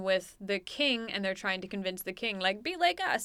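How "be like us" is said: high-pitched foppish plea; foppish aristocrat. Acted. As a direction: play a dandy coaxing someone to join in. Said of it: "we're foppish".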